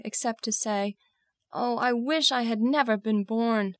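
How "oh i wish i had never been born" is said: mild, tearful lament; a touch of despair. Acted. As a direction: lament it with restrained grief. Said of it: "My tears fell. I could not continue".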